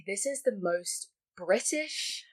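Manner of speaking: breathless slow whisper of disbelief. Retold or imitated. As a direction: whisper it, half amused and half appalled. Voicing her own reaction in a whisper.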